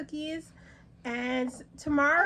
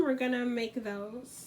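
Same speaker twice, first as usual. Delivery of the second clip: whisper; 2 semitones lower, 7 dB quieter, slower than usual. Real, not acted. Secret plan told to kids.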